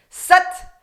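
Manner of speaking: Sat punched high and loud; Sat with a navel contraction; sharp Sat. Shown as a demonstration. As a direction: hit Sat hard off the teeth. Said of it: "So it's a very sharp".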